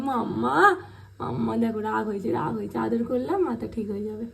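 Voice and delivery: cat's cutesy voice. Pretend. Owner voices the cat's side.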